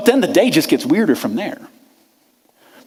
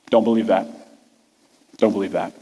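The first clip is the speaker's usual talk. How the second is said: low, much softer, fading; inner refusal; 10 semitones lower, 5 dB quieter than usual. Retold or imitated. Thomas alone in the city refusing to believe, low and fading. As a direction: murmur it to yourself, heavy.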